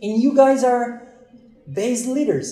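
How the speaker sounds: high, loud amazed question; retold astonishment. Pastor realizing they lead a base, high loud amazement. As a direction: push the question up in wonder.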